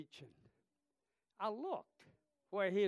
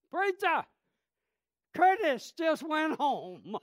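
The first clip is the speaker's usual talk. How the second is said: high, loud quote broken by laughter; preacher retelling the son's call about Curtis, laughing; 12 semitones higher, 12 dB louder, slower than usual. Retold or imitated. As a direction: laugh through the news.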